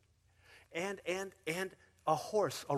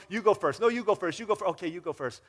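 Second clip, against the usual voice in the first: louder, higher, tumbling over each other; mock polite squabble; 4 semitones higher, 10 dB louder, faster than usual. Preacher acting two eager people both insisting you go first.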